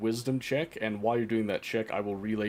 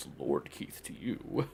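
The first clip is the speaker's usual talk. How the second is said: soft, breathy orc voice muttering under its breath; 7 semitones lower, 5 dB quieter than usual. Voicing the orc as he answers the other players, in a mumbling orc voice. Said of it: "The orc mumbles".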